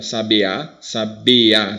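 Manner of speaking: "Sabe a" as "sa-bea", the last vowels in one syllable; vowels joined. Shown as a demonstration. Teacher showing it's said once, "sabe a" fused. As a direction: stress and link "be a" in "sabe a". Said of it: "Você fala uma vez só".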